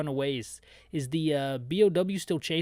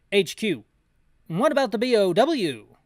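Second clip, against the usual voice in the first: higher, loud urgent question; loud radio query; 5 semitones higher, 6 dB louder than usual. Acted. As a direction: demand it over the radio.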